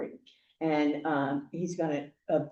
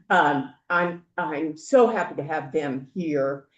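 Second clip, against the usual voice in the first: ordinary talk, nothing marked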